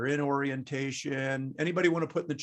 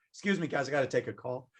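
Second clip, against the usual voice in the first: softer, lower mock-polite aside; pretend aside on phone; 3 semitones lower, 6 dB quieter, faster than usual. Teacher pretends to take a call mid-class, mock aside. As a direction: drop the voice to excuse yourself.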